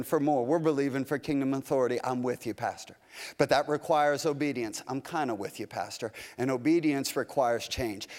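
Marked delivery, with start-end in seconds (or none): 2.0-3.0 softer, lower, trailing away; mock congregant drifting off; fading doubt. 4.9-6.1 softer, lower, dying away; mock wavering congregant; fading doubt.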